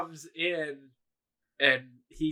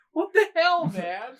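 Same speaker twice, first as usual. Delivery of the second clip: retold indignant outburst; 12 semitones higher, 6 dB louder, slower than usual. Bleeding guy protests, retold.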